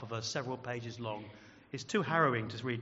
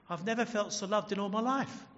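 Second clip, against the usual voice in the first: heartfelt; 6 semitones higher than usual. Retold or imitated. Retold convert overjoyed at feeling loved.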